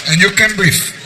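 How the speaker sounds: slow, drawn-out taunt; sarcastic mock sympathy. Wife throws sick husband's words back, slowly mocking. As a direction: stretch it out to mock his complaint.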